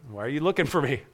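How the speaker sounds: quiet, settled question to his worried parents; calm, profound. Acted. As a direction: ask it gently, without alarm. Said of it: "Calmly, profoundly".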